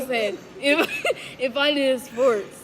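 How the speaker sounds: words broken by giggles; laughing while talking. Real, not acted. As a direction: speak through the laughter.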